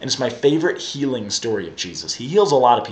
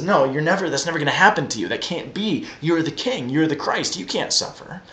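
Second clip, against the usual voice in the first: higher-pitched mock protest, no shouting; retold rebuke; 4 semitones higher than usual. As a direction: object urgently, as Peter rebuking Jesus. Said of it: "Peter began to rebuke him".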